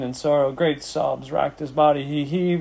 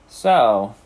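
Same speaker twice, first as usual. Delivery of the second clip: lower, louder disgusted drop; 4 semitones lower, 6 dB louder than usual. A narrator's reading. Rat eyeing the egg sac, disgusted. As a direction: spit out one low word. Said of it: "he said in disgust".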